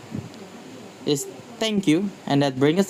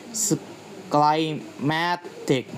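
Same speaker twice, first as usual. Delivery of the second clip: "climatic" broken up slowly, stress on "ma"; stress before IC; 4 dB quieter, much slower than usual. Shown as a demonstration. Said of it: "the stress falls on the syllable before I C".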